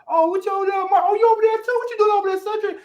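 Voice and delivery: high-pitched call to familiar faces; hammed-up surprise at bumping into someone; mock surprised greeting. Acts out spotting familiar people.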